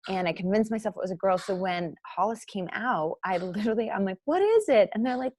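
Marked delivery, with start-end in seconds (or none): 4.2-4.9 high startled yell; shrieking at the delivery; retold scream. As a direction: shout it out in shock. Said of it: "That's what I screamed out".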